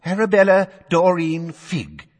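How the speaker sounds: high, loud, wavering witness; quavery voice. A narrator's reading. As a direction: let the name quaver nervously. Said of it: "in her quavery voice".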